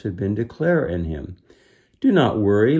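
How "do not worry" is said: even. Acted. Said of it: "as evenly as he could".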